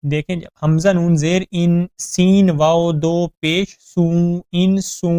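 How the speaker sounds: انس spelled out slowly letter by letter; syllable by syllable: ان سو; spelling out. Shown as a demonstration. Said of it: "ہجے کر لیں".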